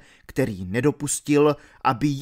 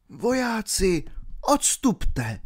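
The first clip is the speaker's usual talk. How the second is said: put-on old pilgrim; 8 semitones higher, slower than usual. A narrator's reading. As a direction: send the soldiers away gently. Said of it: "řekl starý poutník".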